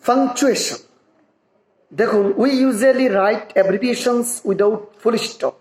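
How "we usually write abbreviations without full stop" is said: slow, careful read of the English text; deliberate textbook reading; slow reading aloud. Shown as a demonstration. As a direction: read each word out slowly for learners. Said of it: "reads English rule aloud".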